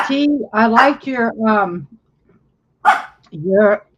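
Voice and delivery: talking through a mouthful of food; mouth full. Real, not acted. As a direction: speak around a bite of dinner. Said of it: "sorry, I have food in my mouth".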